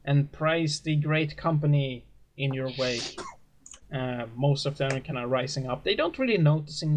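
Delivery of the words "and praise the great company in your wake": a lightly voiced, gently raised preacher dismissing the flock. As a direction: send the workers off kindly. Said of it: "the preacher kinda goes like".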